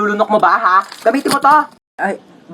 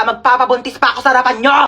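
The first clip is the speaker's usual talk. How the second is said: crying shout; faster than usual. Acted. Tearful shouting threat.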